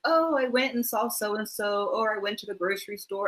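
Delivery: a hint of a chatty parent recounting errands; parents' casual report.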